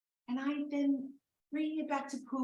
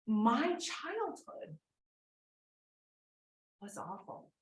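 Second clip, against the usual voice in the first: sad confession; slower than usual. Retold or imitated. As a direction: draw it out like it hurts to say. Confessing to therapist, crying.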